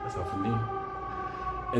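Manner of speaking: breathless throwaway aside; whispered aside. Real, not acted. An aside to the audience, whispered. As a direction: drop it to a quick whisper. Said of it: "aside about lesbian world".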